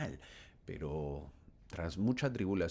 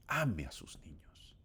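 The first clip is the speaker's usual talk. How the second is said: gentle whisper; 2 semitones lower, slower than usual. Retold or imitated. Bishop gently urging the sister, whispered. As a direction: hush it like tender counsel.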